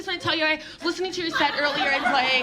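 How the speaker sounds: a light hint of a prim offended parent; offended audience member. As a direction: rush through it like a nervous fan. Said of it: "They always wanna talk to me".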